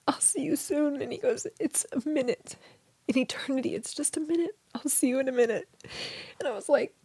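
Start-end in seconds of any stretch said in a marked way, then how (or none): 0.1-5.7 softer, hushed promise; soft reassurance. Retold or imitated. Husband promising he'll see her soon, hushed. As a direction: say it gently, almost whispered. Husband's parting words retold.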